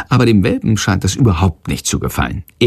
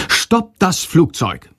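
bat cry; 7 semitones higher, slower than usual. Acted. Bat cries out.

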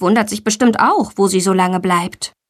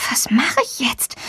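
scared whisper; 3 semitones higher, 5 dB quieter than usual. A narrator's reading. Scared atop the door.

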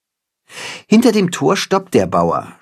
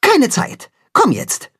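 curt reply; 13 semitones higher than usual. Acted. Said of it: "antwortet knapp".

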